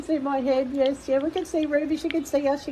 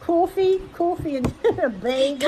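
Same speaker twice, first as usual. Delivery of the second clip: mock New Jersey accent on "coffee"; put-on New Jersey accent, offering coffee. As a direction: playfully imitate New Jersey talk. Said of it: "Oh, you talk like that".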